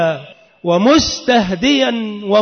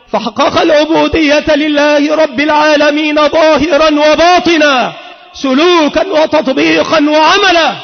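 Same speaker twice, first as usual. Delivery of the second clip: fervent preaching. Acted. Preacher rousing the congregation on the Prophet's humility, fervent preaching. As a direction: build the sermon up to a ringing climax. Sermon builds to fervent pitch.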